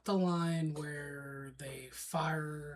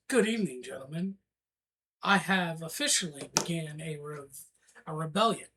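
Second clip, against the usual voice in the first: formal announcement; 2 semitones lower, faster than usual. Acted. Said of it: "let me try that again. Take two".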